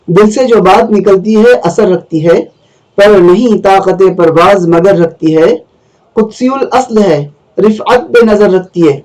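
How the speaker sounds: measured recital of Urdu verse; poetry recitation. Acted. Teacher reading Iqbal's stanza to students, poetry recitation. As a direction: recite the couplet line by line.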